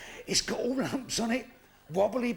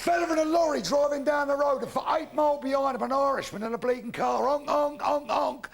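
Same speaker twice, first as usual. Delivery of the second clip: loud storytelling; 4 semitones higher, 4 dB louder than usual. Real, not acted. Energetic shouted joke opening.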